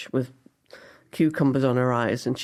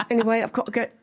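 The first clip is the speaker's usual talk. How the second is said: Pam; 6 semitones higher than usual. Retold or imitated. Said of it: "She goes".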